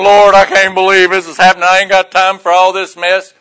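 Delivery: loud, fed-up grumbling at the Lord; exasperated complaint. Retold or imitated. Pulled over by the cop, griping loudly to the Lord. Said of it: "I'm going".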